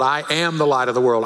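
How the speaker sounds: quick line with weight on "am"; stress on AM. Retold or imitated. Girl practicing at the mirror, stress on "am". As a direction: punch "am", the second word. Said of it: "even emphasized the different words".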